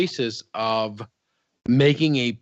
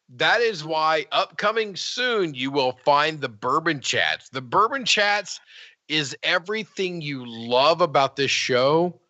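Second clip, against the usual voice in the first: slow, deliberate promo read; measured announcer-style teaser; show promo; slower than usual. Pretend. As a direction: pitch the coming show slowly, line by line. Performs a promo for upcoming show.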